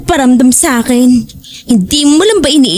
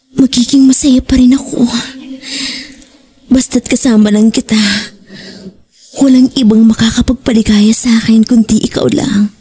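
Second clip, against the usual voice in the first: tender whisper. Acted. Wendy assuring Jake she only needs him, tender whisper. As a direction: whisper it close, all heart. Tender confession to her lover.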